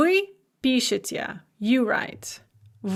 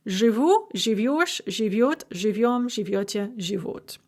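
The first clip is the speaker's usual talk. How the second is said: final stress in "живу, живёшь, живёт", the endings carrying the weight; end stress. Shown as a demonstration. Teacher showing fixed end stress, "живу" through "живут" stressed on the endings. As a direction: recite the forms of "жить", leaning on each ending. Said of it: "The stress is always fixed on the ending".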